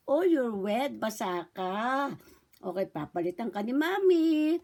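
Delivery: lightly voiced baby talk, vowels stretched out; mother to baby. Shown as a demonstration. Mother checking her baby's wet diaper, lightly singsong baby talk. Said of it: "ganun po ah. Tapos, habang naglalampin".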